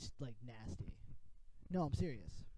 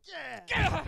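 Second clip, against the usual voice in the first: excited; 10 semitones higher, 9 dB louder than usual. Retold or imitated. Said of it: "you're like".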